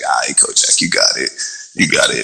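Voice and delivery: low, breathy resigned reply; resigned mumble. Retold or imitated. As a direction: humor him, give up. Humoring the coach.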